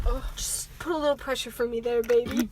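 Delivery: low, soft and quick; acted wounded murmur. Wounded boy asks the girl for help, low murmur.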